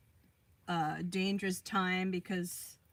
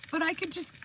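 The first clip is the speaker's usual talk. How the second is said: imitating Michael; 10 semitones higher, much faster than usual. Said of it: "he's like".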